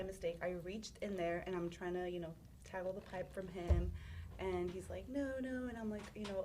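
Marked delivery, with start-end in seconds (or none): 5.1-5.7 half-voiced yelled refusal, pitched up; retold yell. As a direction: imitate someone yelling a refusal. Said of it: "when he yelled one of the no's".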